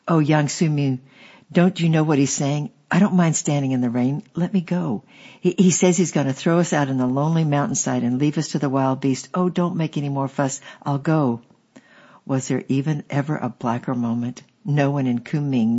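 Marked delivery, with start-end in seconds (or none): 0.1-11.4 slightly raised, pleading voice with a touch of tears; mild tearful plea. Retold or imitated. Ava pleading with Yang Su Mu, mildly tearful. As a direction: beg her to let it go, near tears. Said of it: "she began to cry".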